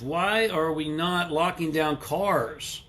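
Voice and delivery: slow, mock-serious question; a little sarcastic. Real, not acted. Livestreamer mocking lockdown logic to viewers, a little sarcastic. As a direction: ask it slowly, tongue in cheek. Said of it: "I'm being a little sarcastic here".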